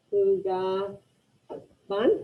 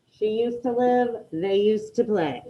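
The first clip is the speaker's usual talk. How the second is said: slow dictation; slower than usual. Shown as a demonstration. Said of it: "you can get these last two".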